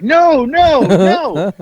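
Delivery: high, loud mock-helpless protest; imitating laughing refusal. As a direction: cry it out high, as if laughing too hard. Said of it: "she's laughing 'cause she's like".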